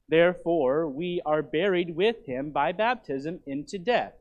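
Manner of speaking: measured, emphatic Bible reading; scripture reading. Acted. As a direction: proclaim the verse to the congregation. Reads scripture aloud to congregation.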